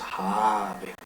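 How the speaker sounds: Habel with a long, stressed A in the first syllable. Shown as a demonstration. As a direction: say Habel as HAAA-bel, slowly. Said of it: "está en la A".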